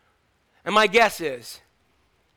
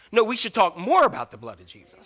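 "more" hit hard as the answer; stress on more; 2 semitones lower than usual. Shown as a demonstration. Preacher correcting the church, stress on "more". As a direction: lean on "more". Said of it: "We shouldn't talk about the blood of Jesus".

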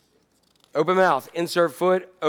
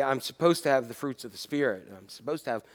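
worn-out pastor; 6 semitones lower, 5 dB quieter than usual. Retold or imitated. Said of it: "pastors who say".

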